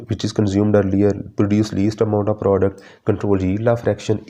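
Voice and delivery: dictating the points very slowly; slow syllabus reading. Acted. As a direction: spell each point out for notes. Reads syllabus points aloud. (धीरे धीरे syllabus पढ़ना)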